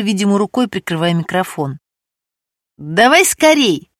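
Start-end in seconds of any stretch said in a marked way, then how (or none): 2.8-3.9 slow, firm command; mildly stern, clipped into the mic; stern order. A narrator's reading. Man ordering Stesha to hurry, lightly stern. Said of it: "строго велел голос".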